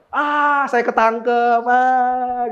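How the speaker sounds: cooperative caught thief. Acted. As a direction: cry out as a mock caught thief. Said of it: "Nggak ada pencuri yang kooperatif". (maling pasrah, teriak dibuat-buat)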